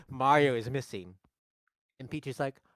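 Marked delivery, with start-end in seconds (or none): 0.1-1.2 lightly voiced dramatic aside to camera; mildly mock-grave impression; Charlie Day. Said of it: "He says that as he's facing the ca".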